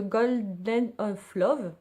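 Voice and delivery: slow English words in a heavy French accent; bad English accent. Real, not acted. Vlogger reading a product name to viewers, poor English accent. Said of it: "mon accent anglais est pourri".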